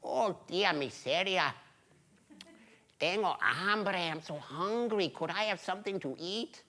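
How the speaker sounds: lightly voiced pleading old man; a hint of weary old beggar; hungry old man. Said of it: "And he said".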